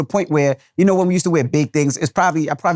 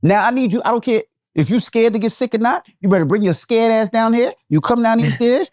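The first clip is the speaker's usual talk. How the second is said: furious dad orders; 9 semitones higher than usual. Retold or imitated. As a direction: order her down the stairs, no arguments. Dad ordering daughter downstairs.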